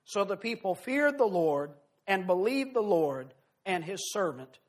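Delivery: measured, solemn Bible reading to the congregation; scripture reading. Acted. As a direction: read the passage with weight, like from the pulpit. Preacher reads long scripture passage.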